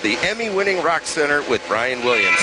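ad read. Acted. Reads sponsored ad.

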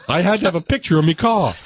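badly attempted Australian accent; dubious accent. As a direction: try a shaky stab at Australian. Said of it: "What kind of accent was that?".

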